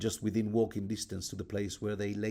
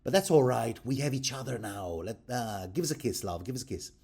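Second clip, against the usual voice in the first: mock-teary Lysa; 3 semitones higher than usual. Lysa fussing over her niece, mock-sweet high coo. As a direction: ham up a cloying aunt pleading for a kiss. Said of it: "she's all like".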